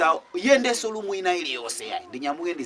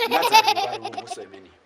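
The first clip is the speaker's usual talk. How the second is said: high squeal through laughter; laughing high voice; 6 dB louder than usual. Acted. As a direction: squeak it out, cracking up.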